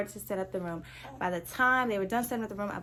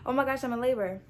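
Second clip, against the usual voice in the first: dawning realization; 4 semitones higher, 3 dB louder than usual. Retold or imitated. Retold realisation of labor.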